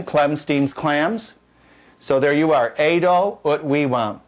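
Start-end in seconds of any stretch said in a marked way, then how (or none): 0.0-1.3 Clem steams clams, very slow and deliberate; slow mnemonic. Shown as a demonstration. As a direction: chant the mnemonic slowly. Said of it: "It's third conjugation".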